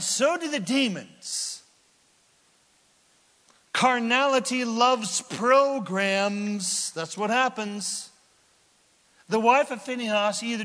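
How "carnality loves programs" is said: much higher, louder, very slow; preached slowly. Acted. Preacher hammering his point to the congregation. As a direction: hammer each word home.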